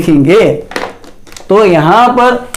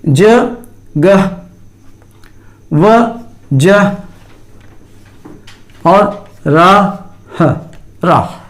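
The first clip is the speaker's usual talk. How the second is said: slow syllable-by-syllable; much slower than usual. Shown as a demonstration. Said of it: "तलफ़ुज़ में इसकी आवाज़ वाज़ह तौर पर".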